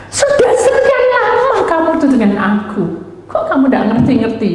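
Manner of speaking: high, amused rebuke; laughing voice of God. Retold or imitated. (suara Tuhan menegur sambil tertawa)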